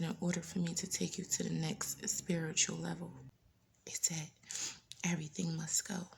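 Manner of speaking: soft, hushed voice of God; still small voice. Retold or imitated. God speaking to her in a quiet still voice. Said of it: "the same still voice".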